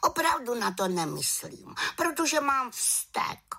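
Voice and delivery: put-on very high girlish little witch. A narrator's reading. Little witch admitting her slip, very high voice. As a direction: answer sheepishly as a young witch.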